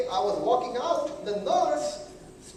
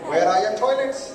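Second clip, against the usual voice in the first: exasperated insistence; 5 dB louder than usual. Retold or imitated. Repeating question, losing patience.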